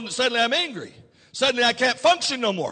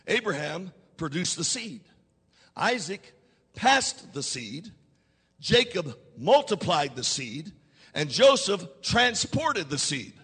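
slow, softer, spaced out, each name weighed; slow deliberate first telling; 5 semitones lower, 5 dB quieter than usual. Shown as a demonstration. Preacher laying out the lineage to the congregation, slow and hushed. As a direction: lay it down slowly so it sinks in. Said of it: "Let me say it again".

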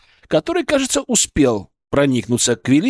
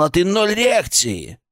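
reproachful creature; 3 semitones higher, slower than usual. Acted. Creature scolds human for ignoring him.

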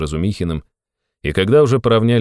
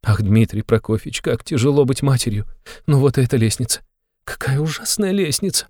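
high, agitated mother's voice; a mother spilling her worries, pitched high; fretting mother; 7 semitones higher than usual. A narrator's reading. Mother on the stairs.

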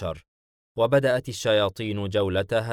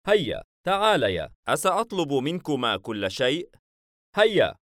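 lively, higher-pitched coaxing with a smile; smiling urging; 6 semitones higher than usual. A narrator's reading. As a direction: beckon them cheerfully, pitching the calls high. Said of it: "إيزيس باسما محركا حاجبيه". (بابتسامة وحثّ مرح)

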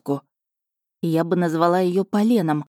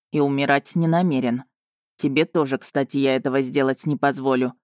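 low, controlled menace; veiled threat; 4 semitones lower than usual. A narrator's reading. Dragon forbids the heroine to die, mildly threatening. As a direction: promise it like an understated threat. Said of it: "прозвучало как угроза".

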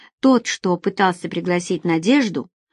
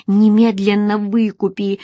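exclaimed; 2 semitones higher, 4 dB louder than usual. A narrator's reading. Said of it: "вскрикнула Надежда".

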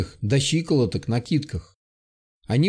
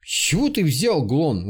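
surprised. Acted. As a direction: ask it, caught off guard. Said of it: "удивился второй".

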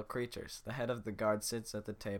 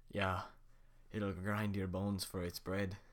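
slow villager voice; slower than usual. Acted. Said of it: "I'll just do the voices".

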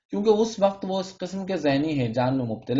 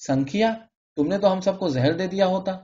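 alarmed cry; 5 semitones higher than usual. Acted. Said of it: "چیختے ہوئے کہا".

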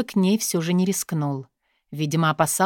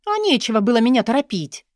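higher, louder, spoiled whine; capricious; 5 semitones higher, 4 dB louder than usual. A narrator's reading. Katya blaming the guard for rushing her, capricious. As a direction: pout it out like a spoiled girl. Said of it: "капризно ответила она".

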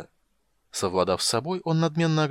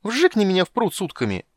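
high, loud excited squeal; squealing kender; 9 semitones higher, 6 dB louder than usual. Acted. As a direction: bounce and shriek.

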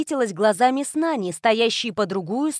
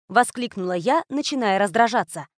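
ordinary delivery

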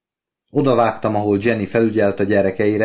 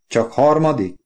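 higher, mildly disappointed "Csak harmadik?"; questioning; 5 semitones higher than usual. A narrator's reading. Wife questions Oliver's class rank, unimpressed. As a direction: query "Csak harmadik?" with a pitch lift.

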